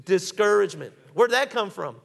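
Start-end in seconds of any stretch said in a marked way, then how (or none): 0.0-0.9 leading the congregation. Shown as a demonstration. Preacher has the church say it with him, leading firmly. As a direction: say it out for everyone to join in. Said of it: "Say it with me. Ready?".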